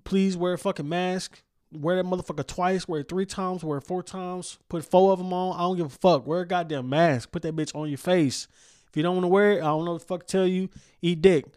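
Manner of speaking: loud exasperated rant; mask rant. Real, not acted. Host scolding listeners about masks, loud exasperated rant.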